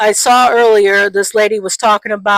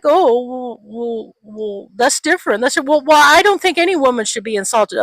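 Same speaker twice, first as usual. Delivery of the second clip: mocking flustered dodge; 4 semitones higher than usual. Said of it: "he's like".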